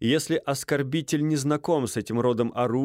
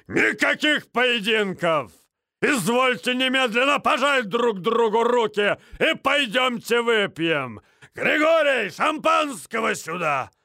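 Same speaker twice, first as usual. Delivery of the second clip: very slow, much higher, loud roar; growled roar; 12 semitones higher, 3 dB louder than usual. A narrator's reading. Major Минц bursting in drunk, slow booming roar. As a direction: bellow like a tipsy major. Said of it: "прорычал хозяин".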